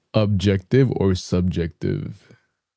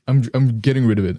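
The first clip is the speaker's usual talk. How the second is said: "I'm, I'm getting rid of it" pitched up, brighter; higher voice; 4 semitones higher, faster than usual. Real, not acted. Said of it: "intermittently make my voice higher".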